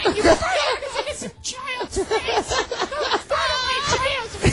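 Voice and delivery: lightly voiced indignant soccer mom. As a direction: scold like a fussing mother, barely changed. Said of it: "And then say softball's dangerous".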